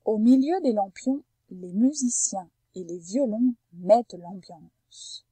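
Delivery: phrase lue lentement et posément; dictée attentive. Shown as a demonstration. Teacher reads the example sentence to a pupil, careful and measured. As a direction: read it out clearly for listening. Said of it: "Écoute bien la phrase que je vais te dire".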